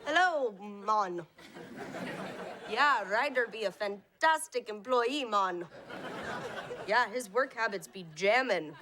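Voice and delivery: a lightly done, joking Jamaican patter; put-on Jamaican voice as a phone reference; Jamaican accent. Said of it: "make you do an accent".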